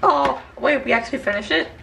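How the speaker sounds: high, loud surprise; suddenly amazed it's done; surprised. Real, not acted. Surprised at finishing.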